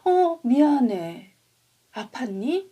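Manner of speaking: put-on a big kid saying sorry with a start; startled apology. Storyteller voicing big Hugh apologizing to Willy, startled. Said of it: "어떻게 이야기하냐면은요".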